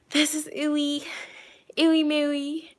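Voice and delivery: put-on baby-talk the pet's cute name. Cooing introducing another pet.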